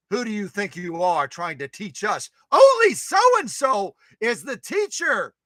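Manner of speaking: mock a pompous know-it-all; indignant mock scolding. Mocking someone who claims teacher role.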